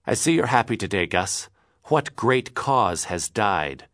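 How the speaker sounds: bitter, slow sarcastic jab. Acted. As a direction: needle him with bitterness. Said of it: "his bitterness overcame him".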